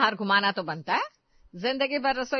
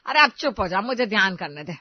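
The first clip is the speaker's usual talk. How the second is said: louder, fed-up order to stop; sharp scolding; 6 dB louder than usual. Acted. Mother-in-law cutting off the arguing daughter-in-law, loud and fed up. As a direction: shut her up, exasperated.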